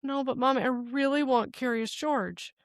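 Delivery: mild imitation of a begging daughter; pleading child. Retold child pleading with mother.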